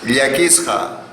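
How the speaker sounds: "yakisja" begun with ly, as lyakisja; "yakisja" starting on an lla sound; model pronunciation. Shown as a demonstration. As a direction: say "yakisja" with a palatal l first. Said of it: "¿cómo pronunciaría-, pronunciamos esta palabra?".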